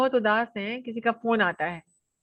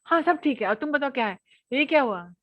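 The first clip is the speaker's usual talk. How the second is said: lively friendly; 2 semitones higher than usual. Shown as a demonstration. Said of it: "अगर बोल रहा".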